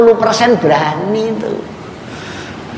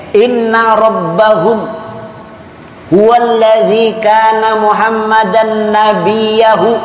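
Arabic text recitation; 3 semitones higher than usual. Acted. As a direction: recite the quotation steadily, drawing out the syllables. Reads out an Arabic quotation. (bacaan kutipan Arab yang pelan dan tertata)

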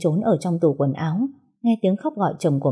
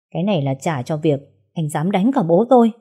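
gritted, emphatic. Acted. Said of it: "gằn lên".

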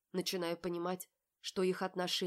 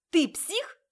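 much higher and louder, outraged; shocked shout; 13 semitones higher, 13 dB louder than usual. A narrator's reading. Polly screams at Marat in shock. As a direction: shriek it at him in disbelief.

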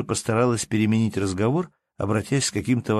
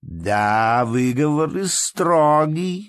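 slow, amused drawl; a hint of a smile in the old man's voice; smiling old man; 6 semitones higher, 5 dB louder, much slower than usual. Old count jokes with Polina, smiling and slow. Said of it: "отвечал старик с улыбкою".

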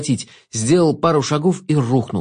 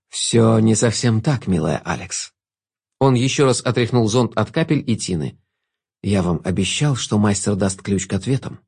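velvety voice; 3 semitones lower than usual. Acted. Jester voice. (бархатный невинный голос)

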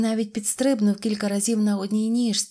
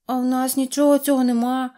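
put-on high, louder storybook girl; little girl's voice; 5 semitones higher, 5 dB louder than usual. A narrator's reading. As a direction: answer as a small girl with nothing to offer. Little girl answers the mechanic. (високий голос малючки)

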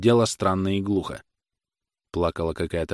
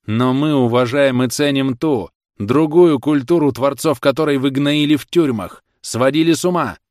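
shouting; 6 semitones higher, 7 dB louder than usual. A narrator's reading. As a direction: fling it back with full force. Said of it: "тоже кричал".

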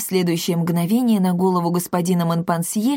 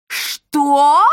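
loud, high furious "Что?"; 8 semitones higher, 6 dB louder than usual. A narrator's reading. Mother snaps at the matchmaker, loud fury. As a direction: bark it back in rage. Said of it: "Ещё сильнее разъярилась Эсмеральда".

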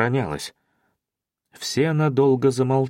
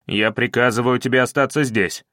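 plain reading voice

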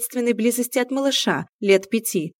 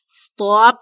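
loud, sudden shout of Stop; a cat's commanding loud halt; sharp stop; 3 semitones higher, 11 dB louder than usual. Acted. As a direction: cut him off hard with a yell. Cat cuts Ilya off.

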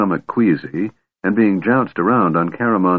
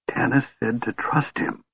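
softer, hushed and quick; swift whisper; 4 semitones higher, 6 dB quieter than usual. A narrator's reading. Kender hurriedly whispering to Caramon past the guards, hushed and quick. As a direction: Tass murmurs it, hushed, keeping it from the guards. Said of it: "Tass whispered swiftly".

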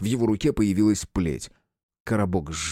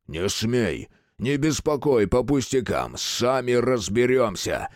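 barked; 3 semitones higher, slower than usual. Acted. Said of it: "рявкнул Кубик".

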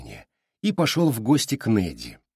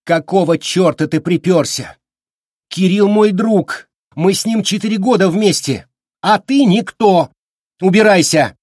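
high, loud screaming rage; wife yelling at husband to leave; furious yell; 9 semitones higher, 8 dB louder than usual. A narrator's reading. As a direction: scream him out of the house. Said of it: "закричала".

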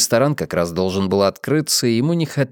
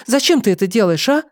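plaintive cry; 14 semitones higher, 4 dB louder than usual. Acted. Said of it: "жалобно воскликнула".

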